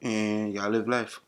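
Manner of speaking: slow Jamaican patois; drawn out patois question; Jamaican accent. Acted. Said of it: "used my Jamaican accent".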